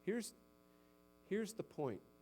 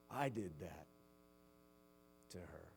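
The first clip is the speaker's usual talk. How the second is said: hushed inner thought; 10 semitones lower, 9 dB quieter than usual. Retold or imitated. Husband's proud private thought.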